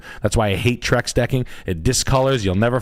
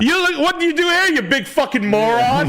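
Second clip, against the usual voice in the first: imitating Howard; 14 semitones higher than usual. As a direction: screech the insult as Howard. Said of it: "He would say that".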